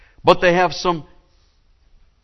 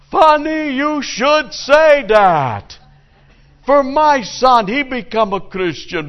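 much higher and louder, very slow; high shouted punchline; 11 semitones higher, 6 dB louder, slower than usual. Acted. Rabbi answers the father, high slow shout. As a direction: wail the line up high and drag it out.

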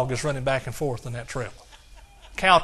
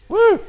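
joyful whoop; 9 dB louder than usual. Real, not acted. Preacher whoops after his point.

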